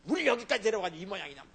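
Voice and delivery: mock angry complaint; grumbling complaint. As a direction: whine at God like a cheated crowd. Israelites grumbling at God.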